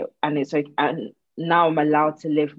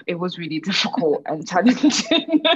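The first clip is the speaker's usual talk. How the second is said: laughing through the words; uneasy laugh mid-sentence; nervous laugh; 2 semitones higher than usual. Real, not acted. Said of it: "I shouldn't be laughing".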